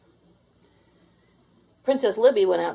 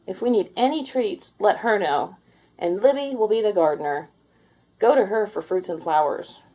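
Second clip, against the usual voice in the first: louder, bossy little royals; proud princess voice; 5 dB louder than usual. Acted. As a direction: announce it grandly. Princesses announcing new jobs.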